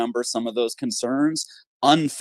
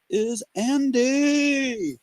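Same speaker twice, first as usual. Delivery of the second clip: stretched, much higher game-show announcer call; drawn-out, higher welcome, hyping Andy onto the mic; hyped announcer intro; 11 semitones higher than usual. Acted. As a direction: bring the guest on like a boxing ring announcer. Host introduces the guest.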